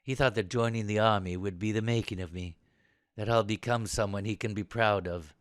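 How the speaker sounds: low, soft, reflective admission; subdued confession. Acted. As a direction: confide reluctantly, energy drained. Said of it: "after a deep intake of breath".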